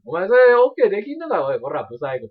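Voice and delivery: lightly voiced punk threat; japanese delinquent tough talk. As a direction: bark it like a street tough. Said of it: "まだやってんねや、俺、そのノリ".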